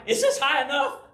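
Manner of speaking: a little kid's anxious ask, played for laughs; retold nervous child. Boy up a tree asks his dad, nervous mock plea.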